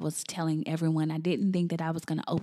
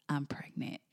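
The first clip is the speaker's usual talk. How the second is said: whispered, lower and much softer; hushed realization; 4 semitones lower, 11 dB quieter than usual. Retold or imitated. Waking from sleep, realizing she's pregnant, hushed whisper. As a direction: whisper it like a sudden revelation.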